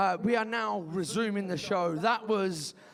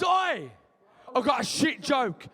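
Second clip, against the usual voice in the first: mock shout; 4 dB louder, slower than usual. Shown as a demonstration. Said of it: "Someone goes".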